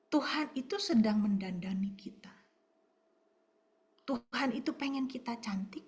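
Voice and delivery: breathy hushed whisper to the congregation. Real, not acted. Preacher whispering to the mothers in church, hushed. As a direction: lean in and whisper it. Preacher drops to intimate aside.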